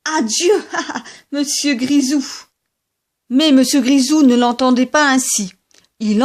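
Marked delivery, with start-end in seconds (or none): 0.1-2.3 gleeful farewell. Acted. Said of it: "jubilait-il".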